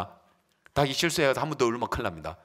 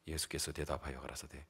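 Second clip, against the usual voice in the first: ordinary delivery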